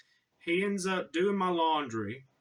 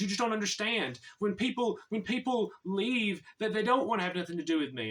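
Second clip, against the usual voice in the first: mock-upset plea, pitched up; retold mild breakdown, voice raised in pitch; 5 semitones higher than usual. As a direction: imitate someone getting worked up and hurt. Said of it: "starts breaking down and getting so upset".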